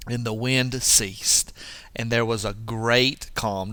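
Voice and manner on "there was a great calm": "great" leaned on in a measured reading; emphasis on "great" before "calm"; stress on great. Shown as a demonstration. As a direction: let "great" carry the phrase. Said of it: "Don't you like that emphasis?".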